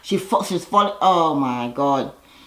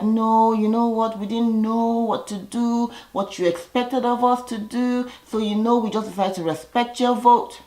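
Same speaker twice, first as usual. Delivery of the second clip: a touch higher, mock sweet excuse; mock innocent girls; 5 semitones higher than usual. Girls excusing themselves to the men, lightly mock sweet. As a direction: lightly voice the girls playing dumb. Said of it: "And the girls are like".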